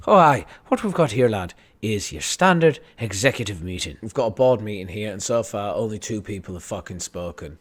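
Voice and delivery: put-on Irish accent. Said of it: "Amazon's Irish for some fucking reason".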